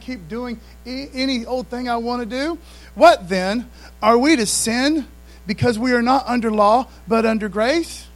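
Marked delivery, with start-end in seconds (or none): 3.0-8.1 rhetorical question. Retold or imitated. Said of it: "there's the question".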